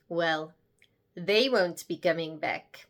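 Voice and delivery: put-on low, deadpan South African accent; amateur South African accent, understated. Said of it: "my attempt at a South African accent".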